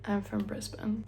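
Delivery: quiet, mildly pained retold reply; pained admission. Retelling her reply to Australian guests, mildly pained. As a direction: own up softly, as if it hurts. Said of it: "That was a painful statement".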